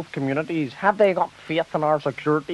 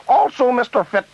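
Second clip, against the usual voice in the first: frog in throat; 6 semitones higher than usual. Acted. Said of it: "jeez, I've got a frog in my throat here".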